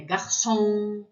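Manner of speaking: "garçom" leaning on the final syllable; stress at the end. Shown as a demonstration. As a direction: draw out the last syllable of "garçom". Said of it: "é no final".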